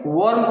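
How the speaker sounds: rounded O in "वार्म", not AA. Shown as a demonstration. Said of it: "क्या पढ़ेंगे".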